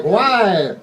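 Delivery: acted impatient question; exasperated. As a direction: fire back at a whiner. Exasperated reply to whiny ghost.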